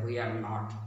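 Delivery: Marathi-accented we are not. Shown as a demonstration. Teacher demonstrating the Marathi accent to learners, Marathi-accented. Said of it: "Marathi accent is there".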